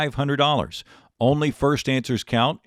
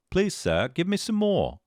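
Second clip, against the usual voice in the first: put-on British accent, rising high at the end; 8 semitones higher than usual. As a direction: plead politely in a mock British accent. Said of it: "get into my British accent".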